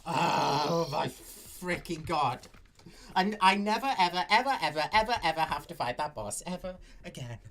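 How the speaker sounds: real victory yelling. Real, not acted. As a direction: scream your relief that it's finally over. Celebrates beating boss.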